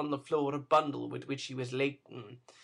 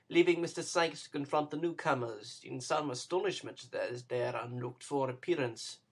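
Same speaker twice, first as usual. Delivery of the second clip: ordinary delivery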